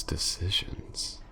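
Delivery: slow whispered decisions, rising at the end. Acted. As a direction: breathe decisions slowly as a toying whisper. Villainess muses over prey's fate.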